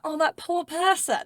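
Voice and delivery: poor-thing sympathy; sympathetic. Acted. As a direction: coo it with drawn-out pity. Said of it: "it actually means like".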